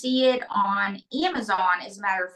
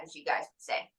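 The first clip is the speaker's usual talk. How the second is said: whispered aside; 7 semitones lower, 9 dB quieter, faster than usual. Real, not acted. Aside to the audience.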